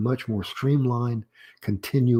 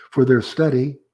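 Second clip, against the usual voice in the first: "for their study," raised and louder, left unfinished; rising intonation; 4 semitones higher, 5 dB louder than usual. Shown as a demonstration. Lecturer showing an unfinished opener, rising intonation on "study". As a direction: keep STUDY up, more is coming. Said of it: "rising intonation 'cause it's unfinished".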